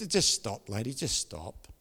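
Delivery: low, quiet plea to stop; inward plea. Retold or imitated. Preacher silently begging the swearing barber, low inward plea. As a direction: thought half aloud, falling away softly.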